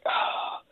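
soft, voiceless gasp of anticipation; hushed gasp. Retold or imitated. Fan retelling their hope during a cameo, hushed gasp. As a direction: let out a quiet, breath-only "ah". Retold hopeful reaction to a cameo.

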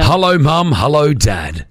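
put-on Aussie greeting; phony Australian accent. Shown as a demonstration. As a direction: overdo the Australian accent, calling to the parents. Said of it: "I think it's phony".

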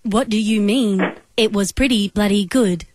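robotic, even phone-menu voice; automated operator voice. Acted. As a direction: read it like a recorded phone system. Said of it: "use only my automated operator voice".

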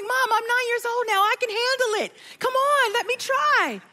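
put-on high, eager little boy; playing her nine-year-old pleading to try; child voice. Son begging his mom to let him call, high and eager. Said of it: "And my son's like".

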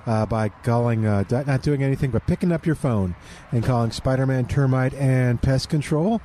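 upbeat sponsor read on air; radio ad read. Acted. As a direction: sell it like a live radio spot. Host reads sponsor ad.

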